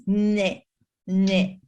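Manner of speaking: repeated short "ne" sounds; baby hunger sound. Shown as a demonstration. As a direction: demonstrate a newborn's hunger cue. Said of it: "this is my version of it".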